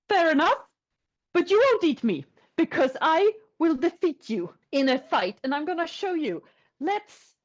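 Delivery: put-on a tiny boy shouting up at a giant; defiant little boy. Goat boy boasting to the troll, high and loud.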